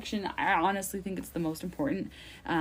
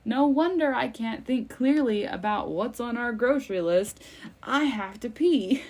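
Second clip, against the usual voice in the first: frazzled mom; 4 semitones higher, 4 dB louder than usual. Retold or imitated. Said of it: "and it's like".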